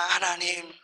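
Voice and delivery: mildly mimicked tearful pleading; tearful prayer. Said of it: "하면서 우는 거예요".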